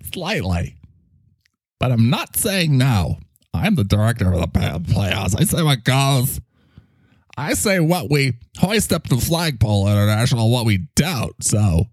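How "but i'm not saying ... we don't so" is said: lightly voiced bossy microphone director; a hint of pompous character voice; self-important microphone character. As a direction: lay down the law as a small puffed-up character. Plays Mike as self-appointed Playhouse director.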